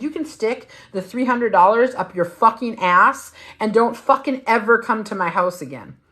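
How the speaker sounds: high-pitched reenacted tirade at her ex; retold fury. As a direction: relive telling him off on the porch.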